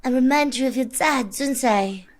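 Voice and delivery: mock femme fatale. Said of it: "Femme fatale".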